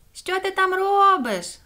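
high, loud, slow call; called-out question. A narrator's reading. Соня questions the echo in the manhole, calling down. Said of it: "запитала Соня".

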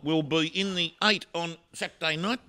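emphatic, showy bold prediction; grand proclamation. Pretend. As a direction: proclaim it to the crowd.

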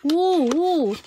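two high, loud oohs; pleasantly amazed. Real, not acted. Host finds that the item fits inside, amazed. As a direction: exclaim twice, high and delighted.

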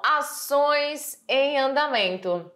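slow, stressing "ações"; slow emphasis. Shown as a demonstration. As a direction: spell out "ações em andamento" slowly. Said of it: "E temos aí essa questão". (devagar, enfatizando "ações")

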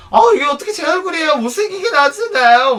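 high-pitched whiny objection, mimicked; indignant protest. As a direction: protest loudly that the photo is unfair. Host protests the unflattering photo. (높은 목소리로 억울한 듯 항의 흉내)

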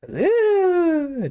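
high, drawn-out "ew"; high whine of disgust; drawn-out squeal of dismay. Acted. Mock dismay at daughter dating.

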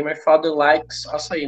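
"likes" said slowly with its final S sounded; final S pronounced. Shown as a demonstration. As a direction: model "likes" carefully, ending on a clear S. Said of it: "Não esquece do S no likes". ("likes" com o S final bem pronunciado, devagar)

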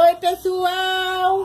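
put-on slow drawn-out sing-song for the baby; baby prompt. Shown as a demonstration. Mother models a greeting for her baby, slow sing-song. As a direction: coax the baby to copy you, stretched and slow.

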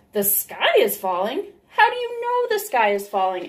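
the king can't believe it; surprised king. Acted. The king hears the news, rising disbelief.

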